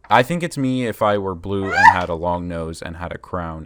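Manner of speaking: words broken up by real laughter; cracking up while describing the picture; laughing. Real, not acted. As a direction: laugh through the joke. Cohosts joking about fan image.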